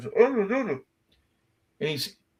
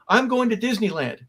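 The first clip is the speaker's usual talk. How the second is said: first run of the rehearsed catchphrase, a bit higher; rehearsed line; 5 semitones higher than usual. Retold or imitated. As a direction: try the line out like a player rehearsing. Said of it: "but I'm practicing my lines".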